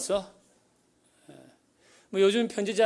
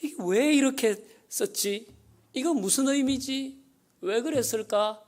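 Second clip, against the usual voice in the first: higher, puzzled musing over each word; pondering lover; 5 semitones higher than usual. Pretend. Lover poring over a letter, curious and puzzled. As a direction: wonder aloud what every dot means. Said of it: "연애 편지 그렇게 읽지 않습니까".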